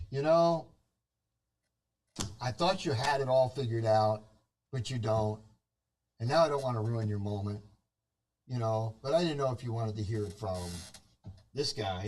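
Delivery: gloating killer. Retold or imitated. Killer reveals his act.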